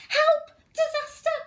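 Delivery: high, loud cry of alarm; a hammed-up panicked shout for the little ones. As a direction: call out help like there's real danger. Animals cry for help.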